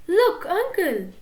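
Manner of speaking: put-on high, slow, eager call of a young nephew; excited squeak. A narrator's reading. Nephew shows his uncle a book, excited squeak. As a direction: draw it out like a thrilled kid. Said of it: "he squeaked excitedly".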